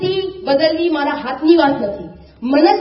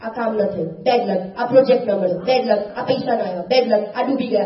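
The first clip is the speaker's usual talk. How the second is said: lower, mock grumbling about bad luck; cursing one's luck; 6 semitones lower, 3 dB quieter than usual. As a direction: imitate someone sulking over small setbacks. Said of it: "વાતે વાતે આપણે આપણા ભાગ્યને કોસીએ". (ભાગ્યને કોસતા હોય એવો નકલી કચવાટ)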